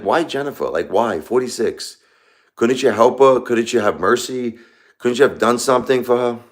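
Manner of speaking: retold cry of angry protest, pitch swinging up; angry pleading. Widower questioning God over his wife's death, angry pleading. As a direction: plead angrily, drawing out some of the questions. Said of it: "But I'm angry because I'm like".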